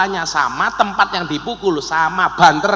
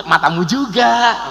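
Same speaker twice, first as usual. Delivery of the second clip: playful retort; 3 semitones higher than usual. Acted. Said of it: "Paling bojone".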